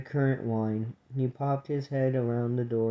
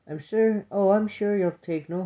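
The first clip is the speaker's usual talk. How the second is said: put-on higher-pitched young sister voice; 7 semitones higher, 3 dB louder than usual. A narrator's reading. Young sister reassuring the grumpy cousin, high voice. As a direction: lift it high to soothe the old grumbler.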